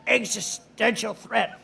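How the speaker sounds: slow, mocking halting old man voice; imitating Biden. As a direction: drag the phrase out in a lightly mocking impression. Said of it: "He loves the word existential".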